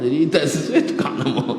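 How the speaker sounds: said through a laugh; chuckling punchline. Real, not acted. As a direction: laugh while telling it. Laughs at the story.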